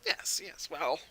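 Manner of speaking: high-pitched shopkeeper musing over a gem; appraising merchant, pondering aloud; shopkeeper character. Acted. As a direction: hum to yourself, then marvel in a high character voice. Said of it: "and you just hear him".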